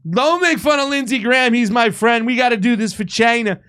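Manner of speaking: lightly voiced Trump, boasting of a friend; imitating Donald Trump. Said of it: "Donald Trump's going around going".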